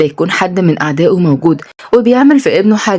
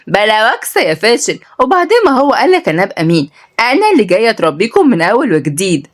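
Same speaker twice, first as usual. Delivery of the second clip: high-pitched woman putting him down; lifted, haughty telling-off; acted derisive reprimand; scornful scolding; 4 semitones higher than usual.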